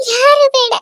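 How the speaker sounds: ಯಾರು flung out in a tearful shout. Acted. Refuses everyone, repeated.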